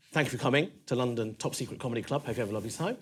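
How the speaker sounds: plain; normal voice. Shown as a demonstration. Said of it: "So my normal voice is this".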